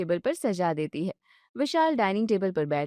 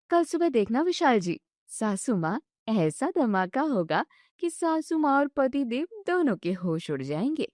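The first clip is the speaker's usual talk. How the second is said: put-on exasperated young wife; 2 semitones higher than usual. Wife lamenting caught between husband and mother-in-law, fretful. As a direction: throw up your hands in despair.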